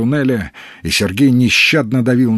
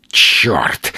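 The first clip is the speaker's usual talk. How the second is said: growl; 5 semitones lower than usual. A narrator's reading. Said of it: "зарычал, тяжело дыша".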